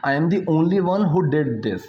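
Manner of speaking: slow, deliberate example sentence; slow teaching demo. Shown as a demonstration. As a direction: lay each word out slowly. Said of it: "ठीक है?". (धीरे-धीरे समझाते हुए)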